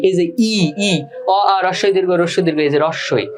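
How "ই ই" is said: "ই" as a pure ee vowel, no ng; isolated first vowel. Shown as a demonstration. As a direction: sound out "ই" alone, twice. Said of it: "উচ্চারণ করছো তখন তোমার আসছে ই".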